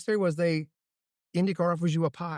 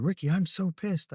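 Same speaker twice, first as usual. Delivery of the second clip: imitating an Italian driver, higher pitched; retold gripe in an Italian accent; 5 semitones higher than usual. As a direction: put on a pissed-off Italian accent. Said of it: "in his Italian accent".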